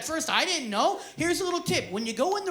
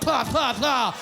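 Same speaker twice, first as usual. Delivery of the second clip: mock disgusted yell; 4 dB louder, slower than usual. Retold disgust, shouted.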